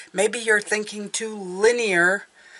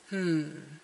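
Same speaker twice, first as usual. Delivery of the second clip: slow, puzzled detective with rising, louder question; Inspector Clouseau; 5 dB louder, much slower than usual. Acted. Reader voices viewers puzzling over a roadblock, slow mock-detective. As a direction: draw it out like a bumbling inspector on a case. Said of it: "A little bit Inspector Clouseau".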